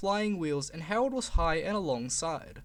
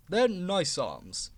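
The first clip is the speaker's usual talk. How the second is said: offended; much slower than usual. Acted.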